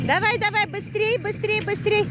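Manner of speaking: high, loud urging; cheering. Real, not acted. Cheering another skier.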